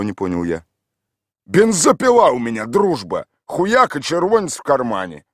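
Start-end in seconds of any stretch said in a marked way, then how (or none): 1.5-5.2 put-on boasting drunk. A narrator's reading. Mikhail boasting.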